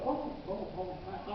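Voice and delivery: put-on understated, slightly hushed old man; a mild, offhand afterthought; very quiet voice. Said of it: "in a very quiet voice".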